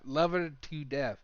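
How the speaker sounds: "Love her to death" said slowly and softly; slow and tender, stress on "Love". Shown as a demonstration. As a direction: lean gently on "Love", drawn out and fond.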